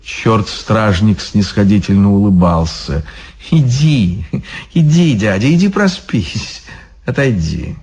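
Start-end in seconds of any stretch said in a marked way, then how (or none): 3.5-7.8 condescending guard voice, pitched up; smug devil guard. Acted. Devil guard shooing a drunk monk, condescending. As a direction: brush him off like a lazy guard.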